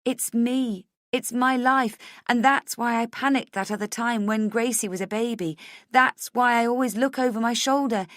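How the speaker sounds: high, loud, insistent; impassioned plea. A narrator's reading. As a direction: plead urgently to be trusted. Pleading to be believed.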